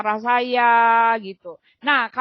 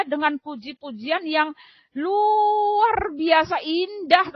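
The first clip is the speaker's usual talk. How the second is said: tearful; 4 semitones higher, much slower than usual. Real, not acted. Moved describing heavenly praise.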